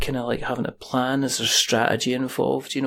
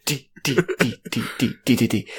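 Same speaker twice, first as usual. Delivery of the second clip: saxophone impression; 3 semitones lower, 3 dB quieter, faster than usual. Shown as a demonstration. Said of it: "it's just saxophone impressions".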